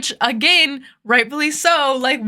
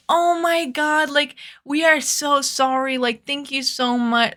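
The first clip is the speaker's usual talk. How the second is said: gushing apology; 4 semitones higher than usual. Retold or imitated. Drunk friend apologizing to the frat guy, gushing. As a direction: imitate a friend apologizing effusively, pitched up.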